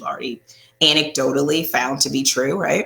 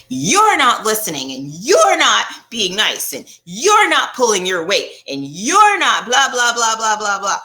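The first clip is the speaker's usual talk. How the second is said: mock blaming; 3 semitones higher, 4 dB louder than usual. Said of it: "As opposed to".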